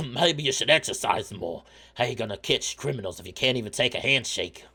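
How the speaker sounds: put-on accented dockworker ribbing; teasing shark porter. Shark mocks the lawman's weak handshake, hearty teasing. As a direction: needle him in a hearty accent. Voices Lannis in attempted accent.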